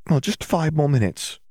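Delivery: high-pitched bargaining character voice; high, hopeful schoolgirl; bargaining girl. A narrator's reading. Hermione bargaining with Fleur in story.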